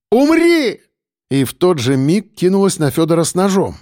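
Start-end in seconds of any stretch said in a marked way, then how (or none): 0.1-0.8 high, drawn-out scream of attack; crying out. A narrator's reading. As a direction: scream it out far above your usual pitch. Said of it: "крикнула".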